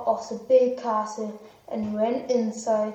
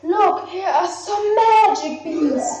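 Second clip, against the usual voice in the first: a lightly voiced old man tempting; 5 semitones higher than usual. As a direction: coax him with the beans. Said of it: "But the old man said".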